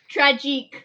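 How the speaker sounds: Tragique said the French way, tra-ZHEEK; French pronunciation. Shown as a demonstration. Showing everyone at home how Tragique is said in French. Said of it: "that's how you say it in French".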